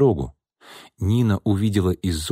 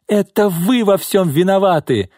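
high, accusing near-shriek; breaking into a shriek; 11 semitones higher, 4 dB louder than usual. A narrator's reading. Secretary blames her boss, breaking into a shriek. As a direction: let the accusation climb toward a shriek. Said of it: "Нина сорвалась на визг".

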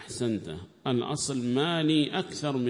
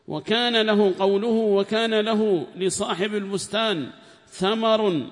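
loud, higher reading of the commentary, at times slow; formal text reading; 7 semitones higher, 7 dB louder, slower than usual. Acted. Reader reads the tafsir aloud in class, loud and formal. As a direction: read the book out to the class in a raised voice.

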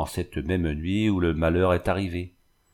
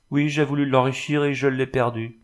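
higher-pitched anguished confession; aveu désespéré; 5 semitones higher than usual. Acted. Jeanne avoue, désespérée. (aveu douloureux, voix plus haute)

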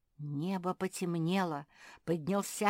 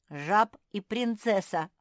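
громче и протяжно, с весёлым смешком на «Жаб»; со смехом «Жаб и принцесса», ударение на «Жаб»; 3 semitones higher, 7 dB louder than usual. A narrator's reading. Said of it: "засмеялась Мафи".

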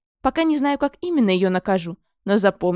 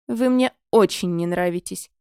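slow, low sarcasm; sarcastic; 3 semitones lower than usual. Acted. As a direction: drip with sarcasm. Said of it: "с сарказмом изрекла графиня".

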